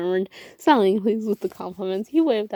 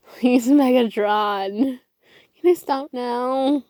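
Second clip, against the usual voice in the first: begging; 4 semitones higher, slower than usual. A narrator's reading. Exhausted bouncing robot begs.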